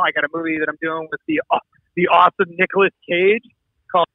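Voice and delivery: muffled, like in a fishbowl; bad connection, sounds underwater. Real, not acted. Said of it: "you sound like you're in a fishbowl".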